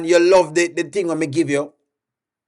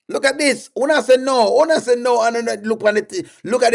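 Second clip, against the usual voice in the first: exasperated; 6 semitones higher than usual. Real, not acted. Host exasperated at chat answers.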